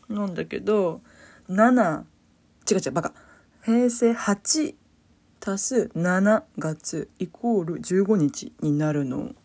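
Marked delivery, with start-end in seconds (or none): 3.6-9.3 slow, loud, spelled-out sum; slow emphatic explanation. Shown as a demonstration. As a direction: spell it out slowly. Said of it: "slow showing of the date sum".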